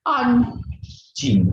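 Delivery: high, loud mock yell at a stranger; imitated angry shout. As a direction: bark it like a rude stranger. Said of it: "Dia ngomong tuh".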